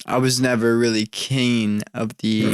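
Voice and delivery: a bit tipsy, words slurring together; slurred speech. Real, not acted. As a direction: slur "keen" a few shots in. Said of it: "I'm just slurring on my words right now 'cause we're a few shots in".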